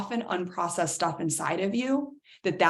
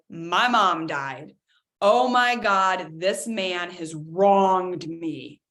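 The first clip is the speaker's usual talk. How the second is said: mock dramatic upset; 3 dB louder, much slower than usual. Acted big upset quote.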